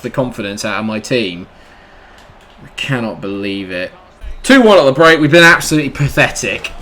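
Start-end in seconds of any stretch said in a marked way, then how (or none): 4.4-6.7 louder disgusted outburst; angry halftime rant. Real, not acted. Gamer fuming at his own team, louder. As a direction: spit out the disgust.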